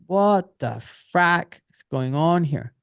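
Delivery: bewildered. Retold or imitated. Recruit realising what the army really is, bewildered. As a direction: punch out each word slowly in disbelief.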